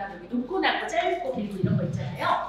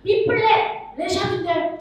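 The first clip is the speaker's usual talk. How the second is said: high excited answer calls; kids shouting answers; 6 semitones higher, 4 dB louder, slower than usual. Retold or imitated. Children racing to call the note, excited and high. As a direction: shout out the answer like a kid in a game. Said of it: "애들이 맞춰야 돼".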